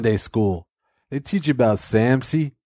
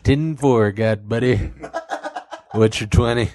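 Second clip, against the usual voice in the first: laughing CB radio call; half-laughing trucker radio check; trucker CB radio talk; 3 semitones lower than usual. Pretend. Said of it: "Like you're a fucking truck driver in the eighties".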